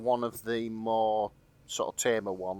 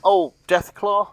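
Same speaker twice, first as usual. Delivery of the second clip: puzzled question; 6 semitones higher, 6 dB louder, slower than usual. Real, not acted. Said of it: "I don't know what on earth you're on about".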